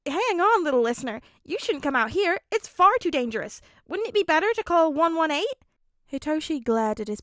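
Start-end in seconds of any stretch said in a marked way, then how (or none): 0.1-5.6 high, loud, worried plea; a father panicking for his family; panicked father. A narrator's reading. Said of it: "some panic in his father".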